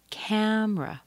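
"Camera" as cam-ra, high start; two syllable camera. Shown as a demonstration. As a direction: drop the middle syllable, say "cam-ra". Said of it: "We're missing a syllable there".

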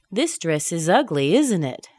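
UGLY and ISN'T peak, then fall; falling tag question. Shown as a demonstration. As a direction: expect agreement, ISN'T IT dropping. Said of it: "you're going to agree".

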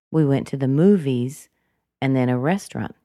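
"movies" kept from climbing, then a pause; statement tune without a lift on "movies"; no rise on movies. Shown as a demonstration. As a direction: keep "movies" down, "restaurant" falling. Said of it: "it's very common to make a rise".

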